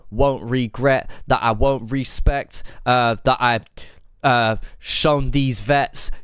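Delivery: regret, respect, vets stressed one by one; multisyllabic rhyme demo. Shown as a demonstration. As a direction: spell out every rhyming syllable. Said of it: "if that was Complete or Wombat".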